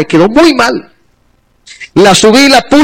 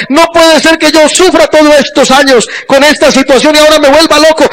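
panicked prayer; 6 semitones higher than usual. Retold or imitated. Panicked prayer seeing wife alive.

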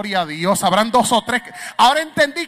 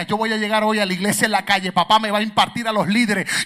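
eager believer. Retold or imitated. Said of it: "usted se levantaba con la euforia".

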